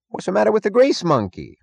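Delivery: high, loud jeering barker; mocking barker. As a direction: jeer like a carny. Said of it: "asked the barker".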